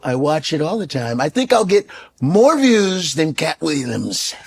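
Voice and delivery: lisping Shannon Sharpe raving about the show; Shannon Sharpe impression. Comedian imitating Shannon Sharpe praising the host's show.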